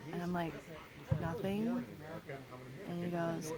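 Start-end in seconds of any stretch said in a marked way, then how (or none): 1.2-1.8 softer, guarded retold answer with a rise; acted-out reluctant, questioning reply; non-responsive. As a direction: give away as little as possible, quietly. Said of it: "take the approach of being non-responsive".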